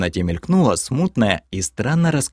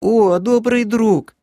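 very high, drawn-out overjoyed cry; high creature wail; 13 semitones higher, 4 dB louder, slower than usual. A narrator's reading. Creature seeing an old friend, high wail. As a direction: wail it out piercingly in recognition. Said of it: "в свою очередь завопил Лохер".

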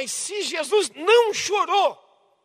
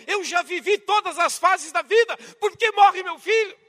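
put-on elderly parent's lament; 4 semitones higher, 6 dB louder than usual. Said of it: "É assim que os pais".

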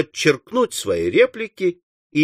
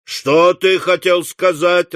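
slow, higher raised-voice question; higher, drawn-out demand; clamouring question; 4 semitones higher, 3 dB louder, slower than usual. Acted. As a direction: call the question out like several onlookers. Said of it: "раздались голоса".

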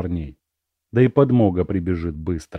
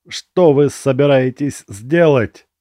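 slow, barely moving tongue; slurred speech; 5 semitones higher, 5 dB louder than usual. A narrator's reading. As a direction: drag the words out, dazed. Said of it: "едва ворочая языком".

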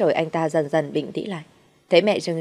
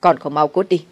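menacing growl; 5 dB louder than usual. Acted. Husband menacing the terrified bride. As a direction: press each word out in rage. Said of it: "Anh ta gằn lên thật là đáng sợ".

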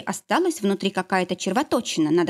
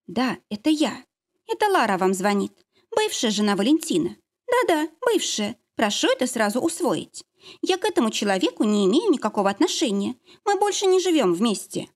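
firm, pushy ex-wife, pitch jumping high; brisk and assertive, cutting off objections; ex-wife announcing herself on the phone, stern and pushy; stern and decisive; 4 semitones higher than usual. Acted. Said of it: "Строгие и решительные. И напористые".

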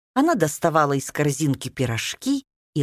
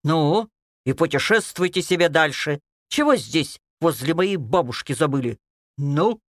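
unfriendly. Acted. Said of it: "недружелюбно спросила Красная Шапочка".

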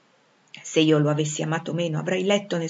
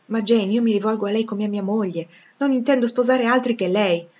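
Rochester pleading, slightly higher; earnest suitor; 4 semitones higher, 4 dB louder than usual. Acted. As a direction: press your proposal with feeling. (innamorato che insiste, con fervore)

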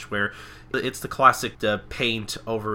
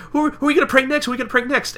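very high, eager cartoon voice; imitated giddy excitement; 6 dB louder, much faster than usual. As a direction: bubble over, too eager to wait. Pinkie eagerly asks about next victim.

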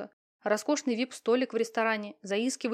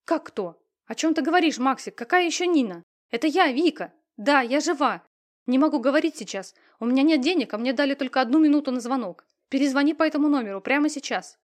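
loud, higher and breathless with urgency; urgent, emotional call; 5 semitones higher, 8 dB louder than usual. A narrator's reading. Victoria hurries her brother on the phone, loud and urgent. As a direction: rush it before the minute runs out.

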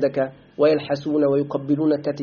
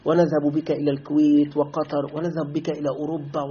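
softer, coaxing voice of a tempter; luring recruiter; 4 semitones lower, 5 dB quieter than usual. Retold or imitated. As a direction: lure the student in with sweet promises. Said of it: "يقول لك".

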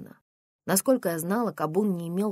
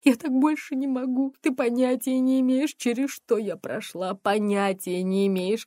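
tearful pleading; 2 semitones higher, 6 dB louder than usual. Acted. Mother crying her complaints to her daughter. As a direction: plead through tears.

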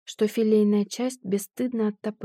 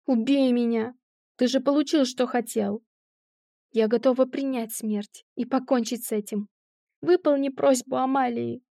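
shouting through tears; 3 semitones higher than usual. Acted. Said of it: "закричала сквозь слёзы".

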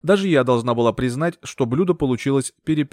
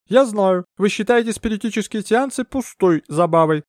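higher, otherworldly medium voice; mystic medium; 9 semitones higher than usual. Acted. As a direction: draw them into the séance. Medium talks to the maid.

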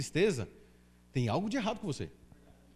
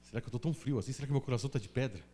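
softer, quick self-doubting mumble; worried muttering to himself; 8 semitones lower, 8 dB quieter, faster than usual. Retold or imitated. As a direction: ask yourself quietly, as if ashamed. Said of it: "Eu falei".

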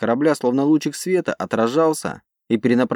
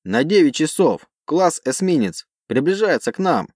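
urgent callout; 5 semitones higher than usual. Acted. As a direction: call the target urgently. Operator calls out target.

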